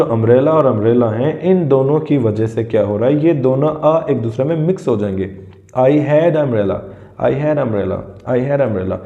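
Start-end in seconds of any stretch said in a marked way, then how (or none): 5.7-9.0 slow demo of "I had umbrella" with the "a" blending into "umbrella"; teacher's slowed demonstration of a vowel clash; vowels run together. Shown as a demonstration. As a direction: say "I had umbrella" slowly so the two a-sounds merge. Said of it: "ये जो दोनों अ के sound mix हो रहे हैं".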